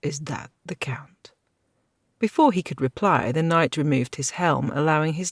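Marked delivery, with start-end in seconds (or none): 0.0-1.3 true whisper, no voice. A narrator's reading. Knight whispering to companions about the stranger, whispered. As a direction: breathe the question secretly. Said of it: "Sir Gilchrist whispered".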